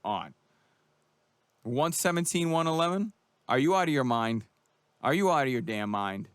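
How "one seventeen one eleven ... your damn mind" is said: furious fan berating a judge; outraged disbelief. Real, not acted.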